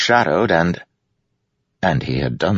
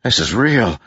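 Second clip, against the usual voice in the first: yelling into the storm; 7 semitones higher than usual. A narrator's reading. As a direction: call out against the storm. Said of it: "Kaladin yelled into the storm".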